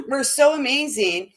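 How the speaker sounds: said through a laugh; amused, giggling through the words. Real, not acted. Repeats line, then laughs.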